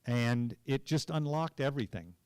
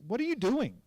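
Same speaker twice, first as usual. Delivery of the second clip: higher-pitched, imitating a baffled director; retold incredulous challenge; 10 semitones higher than usual. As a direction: question the actor as a puzzled director would. Director challenges the actor's reading.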